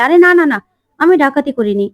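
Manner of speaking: panicked to clear his name; alarmed denial. Acted. Guard accused of robbery, alarmed loud denial.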